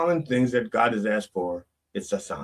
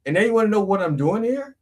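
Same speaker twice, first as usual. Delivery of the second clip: higher, indignant complaint; exasperated Elijah; 9 semitones higher than usual. Acted. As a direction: protest that God sent him there himself. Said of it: "It's like".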